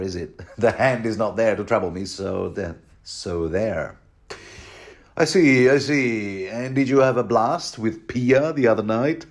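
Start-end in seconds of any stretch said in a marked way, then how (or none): 5.2-9.2 sly Qyburn. Retold or imitated. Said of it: "This is Qyburn".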